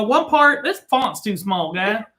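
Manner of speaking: put-on playful Indian accent ad read; mock Indian accent. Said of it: "It sounds like you were trying to do, be Indian".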